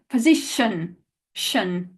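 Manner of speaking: "position" with its ending as shun; schwa ending. Shown as a demonstration. Teacher isolates the I O sound, "position" ending in shun. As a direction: finish "position" on a reduced shun, then repeat it. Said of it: "this I O sound is a sh".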